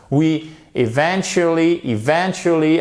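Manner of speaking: eventually, stressed on the first syllable. Shown as a demonstration. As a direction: hit the start of eventually. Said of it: "avec votre accent tonique ici". (accent tonique sur le début de eventually)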